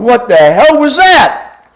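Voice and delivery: high, slow mock deer voice: "What the hell was that?"; a buck voiced in disbelief, high and drawn out; startled buck. Buck voiced after bow fails.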